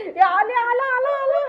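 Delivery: high singsong excitement; excited alerting. Pretend. Owner alerting the dog to an arrival, singsong excitement. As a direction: call it out high, in a playful lilt.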